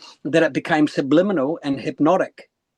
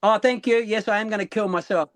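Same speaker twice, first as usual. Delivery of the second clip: higher-pitched, breezy mock gratitude; lightly delighted comeback; cheerful acceptance; 5 semitones higher than usual. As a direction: thank the bully as if given a compliment. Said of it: "you've changed the name of that word".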